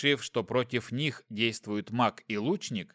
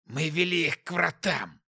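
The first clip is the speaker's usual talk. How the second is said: demon voice; 3 semitones higher than usual. Acted. Wounded demon confesses.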